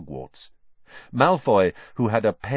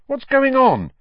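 alarmed; 8 dB louder than usual. A narrator's reading. Lights go out, Ron alarmed.

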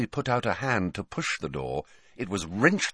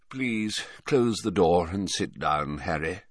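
put-on tired old headmaster; rather tired; 2 semitones lower than usual. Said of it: "sounding rather tired".

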